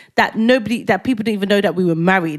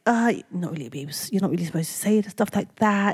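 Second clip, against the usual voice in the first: timid reply; 6 dB quieter than usual. Retold or imitated. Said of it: "And I'm like".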